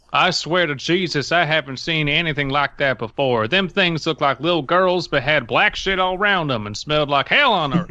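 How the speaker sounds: put-on a light Southern accent for the scared deputy. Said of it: "I always love your southern accent guy".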